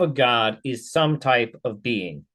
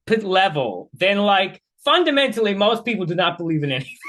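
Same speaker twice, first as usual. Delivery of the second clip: exasperated rebuttal; 6 semitones higher than usual. Real, not acted.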